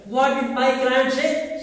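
slow, high quoted question. Shown as a demonstration. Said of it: "Single comma".

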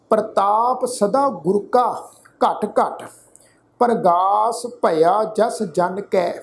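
slow, measured chanting recitation of gurbani; ਹੌਲੀ ਸ਼ਰਧਾ ਭਰਿਆ ਪਾਠ; scripture recitation. Acted. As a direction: recite each word slowly and devoutly.

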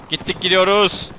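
building from plain to very high, loud squeal; hammed-up doomed cry. Gamer charging into a losing fight, climbing mock-hysterical cry. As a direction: spiral up into a mock-hysterical wail.

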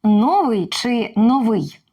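повільно, «Новий» двічі з різним наголосом; протиставити наголоси в «Новий». Shown as a demonstration. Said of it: "Завжди буде новий". (запитання про наголос у «Новий»)

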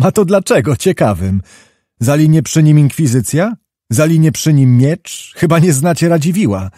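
a touch of desperate, bitter mockery in the voice; bitter mock laugh. Wołodyjowski mocks his friends' hope in a cellar, bitter. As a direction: scoff at the hope, lightly despairing. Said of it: "wybuchnął nagle desperackim śmiechem".

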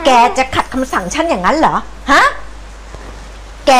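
scolding threat. Acted. Grandma berates the cat.

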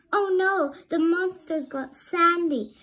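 high, loud alarm. A narrator's reading. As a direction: gasp it in panic. Brother alarmed for sister.

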